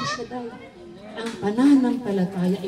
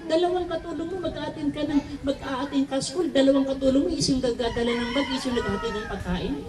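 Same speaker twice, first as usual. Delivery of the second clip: retold father scolding, pitched higher; angry father; 6 semitones higher than usual. Father scolding his gambling children, raised angry voice. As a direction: scold the kids like a furious dad. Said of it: "Galit na galit yung tatay ko".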